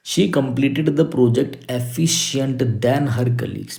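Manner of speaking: slow, spaced-out reading of the question; teacher reading the exercise slowly. Shown as a demonstration. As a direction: read the wrong sentence word by word. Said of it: "reads the question slowly".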